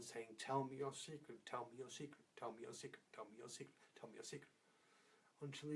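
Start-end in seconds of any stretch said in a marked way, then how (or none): 0.4-4.5 repeated nagging that fades softer each time; nagging repetition. Acted. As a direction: keep nagging, fading away each round. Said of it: "she went on and on and on".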